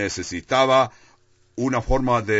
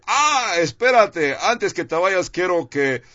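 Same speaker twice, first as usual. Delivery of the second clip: higher-pitched, mock last-minute interruption; mock sudden call-out; 4 semitones higher than usual. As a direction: imitate God suddenly calling someone back. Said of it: "de repente le grita y le dice".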